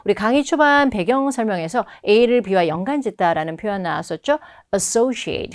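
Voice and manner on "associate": "Associate" with the stress marked clearly; stressed syllable. Shown as a demonstration. Teacher showing students where the accent falls, stressed "Associate". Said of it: "강세는 여기 들어갑니다".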